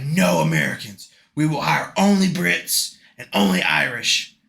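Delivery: loud, firm mock author; mock stern decree. Podcaster imitating the author forbidding Americans, loud and firm. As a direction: lay down the law like a strict boss. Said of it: "But she was like".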